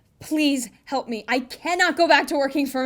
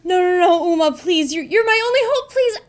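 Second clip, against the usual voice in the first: pleading; 4 semitones higher, 7 dB louder than usual. Real, not acted. Begging actor not to quit.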